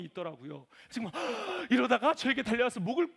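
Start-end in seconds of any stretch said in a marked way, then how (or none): 1.2-1.7 sharp gasp. Retold or imitated. Daughter about to bite.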